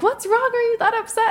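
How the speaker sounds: high, caring friend voice; concerned coworker. Retold or imitated. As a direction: ask gently, pitched high.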